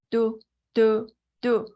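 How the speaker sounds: monotone phone beeps made by mouth; imitated dial tone. Friend has hung up on the caller, imitated busy signal. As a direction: mimic a disconnected line, evenly spaced.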